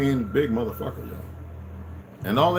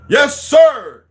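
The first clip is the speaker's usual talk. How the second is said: yes sir; 11 dB louder than usual. Retold or imitated. Answering the officer, at attention.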